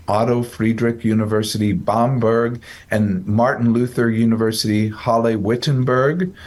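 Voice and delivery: German names said in a German accent. Shown as a demonstration. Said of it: "I did my best German accent there".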